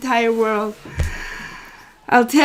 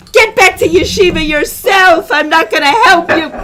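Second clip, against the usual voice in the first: louder, higher retort; mock yell back; 3 semitones higher, 4 dB louder than usual. Parent's imagined reply to a yelling kid, mock angry yell. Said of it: "I could have yelled back".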